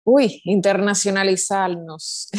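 slow, drawn-out word with a Dominican accent lilt; a sudden Dominican accent stretching out internacionalizarnos; slipped into Dominican accent. Real, not acted. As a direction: let a Dominican accent slip out on the long word. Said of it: "me salió el dominicano".

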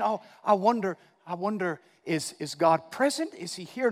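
hesitant, trailing doubt; tentative questioning, acted out; mock wondering. Voices an unsure believer.

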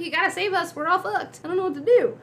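high-pitched frantic pleading; mock panic. Captured droid pleads with his partner, mock panicking. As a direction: beg for rescue in an acted fluster.

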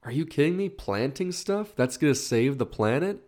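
playful sceptic mockery; mock disbelief. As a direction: imitate a doubter scoffing. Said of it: "It sounds so basic".

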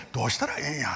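voiced, lightly done Osaka-dialect lament. Preacher repeating God's helpless question, spoken Osaka dialect. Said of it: "大阪弁で言うと".

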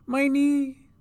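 put-on very high pained child voice; between cries. A narrator's reading. Injured girl complains to the sister, crying in pain. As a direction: wail it, high and loud, as a hurt little girl. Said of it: "she said between cries".

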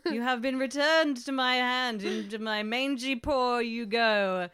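dramatic, relishing theatrical voice; hammy Marge voice. Retold or imitated. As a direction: ham up a tragic heroine. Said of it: "She's like".

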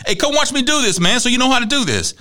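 hammed-up father calling son over; father calling teenage son to the truck; imitating father. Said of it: "he was like".

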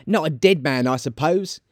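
high start, settling a little; high, dismissive woman; brazen charwoman. Acted. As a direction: argue it in a high character voice. Charwoman argues on.

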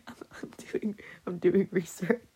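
a quick playful whisper; sneaky whisper. Real, not acted. Caught fumbling a word, jokingly whispering an excuse. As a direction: whisper it like a conspiratorial joke.

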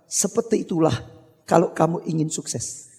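low, soft mentor's voice; quiet lesson. Acted. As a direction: deliver the moral softly and gravely.

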